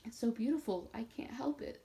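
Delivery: sobbing. A narrator's reading. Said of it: "sobbed Nat".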